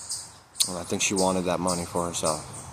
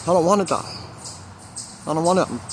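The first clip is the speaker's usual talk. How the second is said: crying plea; 8 semitones higher, faster than usual. Retold or imitated. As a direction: beg through tears not to die. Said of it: "I'm crying".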